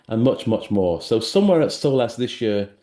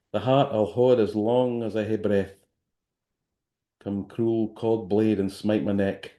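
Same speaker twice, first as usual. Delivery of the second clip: reading in Scots. Shown as a demonstration. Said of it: "I'm gonna read something which is in Scots".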